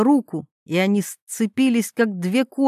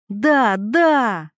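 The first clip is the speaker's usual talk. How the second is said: yelling. Acted. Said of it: "орала Вероника".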